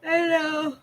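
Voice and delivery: said through a yawn. Real, not acted. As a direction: talk mid-yawn. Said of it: "Sorry, I'm yawning".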